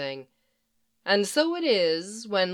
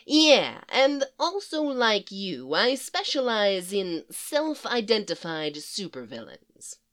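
brassy Harley Quinn voice. Acted. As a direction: play her cheeky and impatient.

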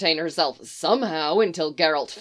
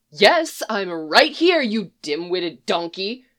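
exasperated retort; slower than usual. Acted. Roach answers Geralt exasperated, ending in a sneering insult. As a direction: snap back, then sneer.

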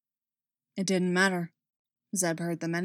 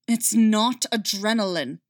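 snarled; 4 dB louder than usual. Acted. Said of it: "Callus snarled back".

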